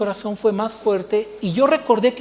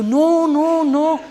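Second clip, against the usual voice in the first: higher, louder protesting no; mock refusal; 7 semitones higher, 6 dB louder, much slower than usual. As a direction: play the stubborn refuser. Imagined refusal of God's call.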